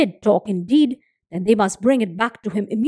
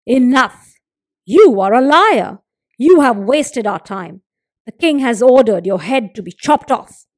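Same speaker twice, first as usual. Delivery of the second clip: angry accusation; 7 dB louder than usual. A narrator's reading. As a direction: shout him down as a liar. Guards angrily accuse hunter.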